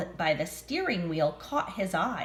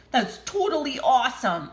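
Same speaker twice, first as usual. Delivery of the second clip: excited shout; 5 semitones higher, 4 dB louder than usual. Acted. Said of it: "Edison shouted".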